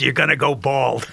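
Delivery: put-on New York accent, raspy smoker's voice. Recalling a New Yorker mother telling him to take his hat off, imitating her smoker's voice. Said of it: "she goes".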